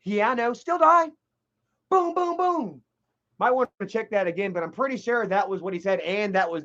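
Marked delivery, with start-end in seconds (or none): 0.0-1.1 higher, offhand and heartless; repeating the killer's exact inflection, cold and higher; cold still die. Retold or imitated. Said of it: "it's pretty much that inflection too". 1.9-2.8 high mock gunshots; three quick pistol booms. Imitating gunshots again.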